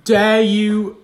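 slow, hammed-up offence; mock outrage. Host mock-offended when co-host insults his drink, slow and hammy. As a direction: play it like a grave insult.

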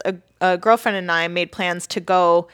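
tired hungover voice; low-energy, hungover and sluggish. Real, not acted. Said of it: "which is why I'm hungover today".

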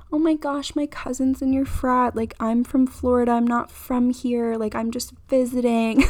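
lightly put-on cute girl charm to talk past the frat brother. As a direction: lift the pitch and play the harmless little visitor. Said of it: "like, cute girl voice".

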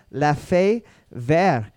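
host's self-mocking French accent on the phrase; trying to sound French, not quite managing. Shown as a demonstration. Quiz host reading a French drink name in a French accent. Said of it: "please excuse my terrible French accent".

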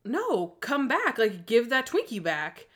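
calling him back, drawn out; pleading yell. Retold or imitated. Retold schoolgirl calling after jock, slow and loud. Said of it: "And I was like".

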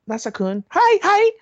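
put-on very high, squeaky anime girl call; put-on cutesy anime wife voice; anime girl impression. Mimics anime girl calling husband.

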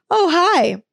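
high, bright fake "oh hi" as if startled; mock surprised greeting. To the trainer lurking behind her, a high mock-surprised hi. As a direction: pretend you didn't know he was there. Acting surprised to run into him.

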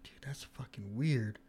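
slow, creeped-out whisper. Retold or imitated. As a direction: whisper it slowly, unnerved. Spooked in empty hallway.

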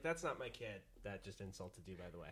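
soft, low confiding aside; a hint of a hushed aside; quiet aside. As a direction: drop it low like a secret. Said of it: "Scarlett's like".

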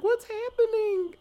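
high, drawn-out bewildered wail; hammed-up squeal of confusion; mock bewilderment. Allison asks as Corey is chased out, mock bewildered.

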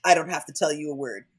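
lightly imitating a possessive refusal; measured, emphatic mock-villain refusal; Lestat withholding. Acting out Lestat guarding his power, lightly haughty. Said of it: "shitty shit Lestat who's like".

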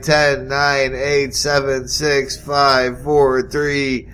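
countdown building to a cheer; new year countdown crowd. Acted. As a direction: count down, then shout it. Counting down to midnight.

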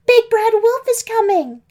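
high, loud scream of alarm, stressing big; screaming warning. Acted. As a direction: yell it at the top of your lungs. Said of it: "Pam screamed and ran into her house shouting".

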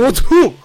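high, loud attempt at a Ugandan sneeze; mock Ugandan-accent sneeze. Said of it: "Give me your best Ugandan sneeze".

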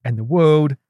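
British narrator emphasis; David Attenborough. Acted. Co-host continuing the review, Attenborough impression. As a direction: intone it like a British documentary. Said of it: "I was going for David Attenborough".

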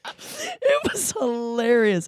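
slow, high, teary with laughter; wheezing out the words through laughter; laugh-crying. Real, not acted. Telling friends, nearly crying with laughter. Laughing till near tears.

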